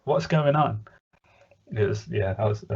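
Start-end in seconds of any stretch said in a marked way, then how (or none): 0.0-0.8 raised pitch, playful confusion; mock bewilderment. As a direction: throw it out in mock despair of understanding. Acting out confusion while watching episode.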